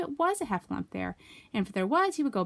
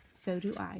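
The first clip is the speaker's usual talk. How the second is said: soft Pooh; 6 dB quieter than usual. Acted. Pooh's soft reply.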